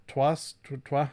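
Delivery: trois said the French way, twah; self-correcting to French trois as twah. Real, not acted. Fumbling for French trois then landing it. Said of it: "dos, no".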